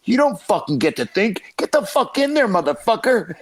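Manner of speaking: high-pitched mock coach yell; a hammed-up drill-coach roar. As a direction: bark it at the lazy blue belts. Coach yelling at students.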